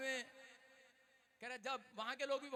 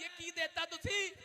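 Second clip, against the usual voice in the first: higher, slow, shouted complaint; husband phoning his wife's mother in a slow, angry shout; angry husband on the phone; 5 semitones higher, slower than usual. Acted. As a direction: demand it of the mother-in-law. Husband calls mother-in-law angrily.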